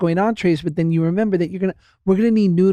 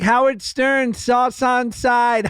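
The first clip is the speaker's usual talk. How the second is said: put-on lightly done Chinese accent, higher, the last words slow; a gentle Chinese accent as the takeout lady taking an order; a toned-down Chinese accent impression, drawn out at the end; 7 semitones higher, much slower than usual. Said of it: "I'm gonna just do it lightly".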